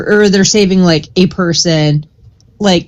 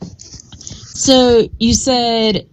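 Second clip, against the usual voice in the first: soft whisper; 4 semitones higher, 3 dB quieter, much slower than usual. Real, not acted. Calm probing question.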